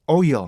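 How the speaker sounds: 오일 as two Korean syllables, oh-il; wrong Korean oil. Shown as a demonstration. Teacher contrasts the wrong reading, Korean pronunciation. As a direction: say "오일" with a Korean il ending. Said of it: "이렇게 발음을 한단 말이에요".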